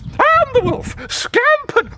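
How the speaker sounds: narrator voice. Shown as a demonstration. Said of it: "this voice".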